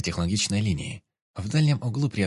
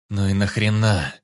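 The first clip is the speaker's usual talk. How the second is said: louder, contemptuous spat question; 6 dB louder than usual. A narrator's reading. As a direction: spit the words out in disgust. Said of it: "Выплюнул Вик". (злобно выплюнуть)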